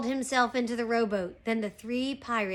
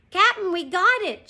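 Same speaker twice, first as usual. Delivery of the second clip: loud, high-pitched pirate shout; raised, excited storybook shout; 8 semitones higher, 8 dB louder than usual. A narrator's reading. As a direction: call out the good news to the captain. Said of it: "shouted Pinky".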